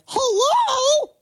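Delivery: high-pitched laughing squeak; laughing squeal. Real, not acted.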